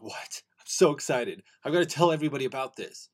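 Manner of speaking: mildly excited retelling of own reaction; recalled excitement, kept in check. Retold or imitated. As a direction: relive being eager to tell everyone. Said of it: "I get so excited".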